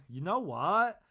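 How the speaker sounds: said through a laugh, slowed. Retold or imitated. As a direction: repeat it, amused, laughing. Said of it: "And Lisa goes".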